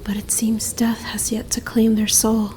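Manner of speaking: soft unvoiced whisper; whispering over a half-dead traveller. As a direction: murmur it close, so as not to wake them. Creature examines the frozen human.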